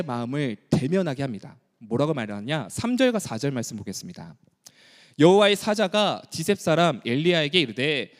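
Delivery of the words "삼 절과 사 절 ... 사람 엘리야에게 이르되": normal talking voice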